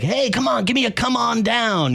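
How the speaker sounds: high, excited fan begging for the catchphrase; eager fan request. Retold or imitated. Fan pleading with the Price is Right announcer, high and eager. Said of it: "people that say".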